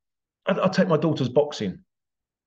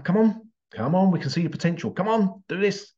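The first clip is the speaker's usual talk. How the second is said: urging coach; 5 semitones higher than usual. Retold or imitated. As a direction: egg the fighter back into the ring. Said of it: "We come".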